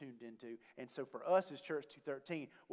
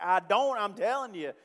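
frustrated; 5 semitones higher, 8 dB louder than usual. Retold or imitated. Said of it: "he's getting a little frustrated".

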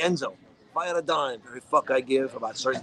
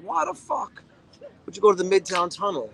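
mock angry yell; 4 semitones higher than usual. Retold argument with cab driver.

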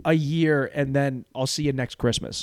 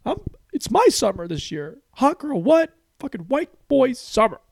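much higher, pumped-up fan cheer; hyped fan; 11 semitones higher than usual. Retold or imitated. A fan of a rapper hearing the interview, excited cheering. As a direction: squeal it like a fan whose idol just spoke. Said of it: "And you're like".

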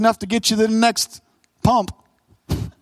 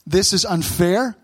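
restless worrier's complaint; 3 semitones higher, slower than usual. Retold or imitated. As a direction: voice the sleepless believer's gripe to God, building up. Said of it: "thinking to myself".

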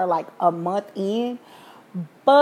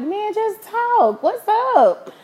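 retold casual reply; 12 semitones higher, much slower than usual. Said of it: "And I was like".

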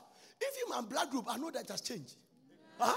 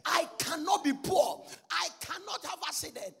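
retold declaration; 3 semitones higher, slower than usual. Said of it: "when I started preaching".

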